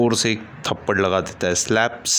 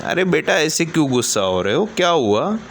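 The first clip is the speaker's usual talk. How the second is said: worried, plaintive; 6 semitones higher than usual. Acted. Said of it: "थोड़ा सा चिंतित".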